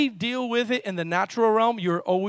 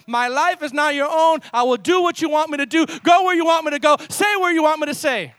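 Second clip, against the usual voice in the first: high, emphatic pulpit delivery; forceful preaching; 6 semitones higher, 5 dB louder than usual. Acted. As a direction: preach it in rising, driving phrases.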